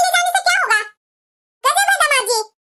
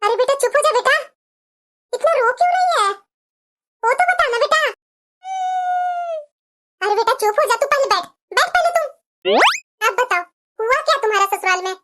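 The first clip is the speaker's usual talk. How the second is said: a lower mother's voice, calming her crying daughter; soothing mother; 4 semitones lower than usual. Acted. Mother calming her crying daughter who arrived at night, soothing and lower. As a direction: hush her like a worried mother.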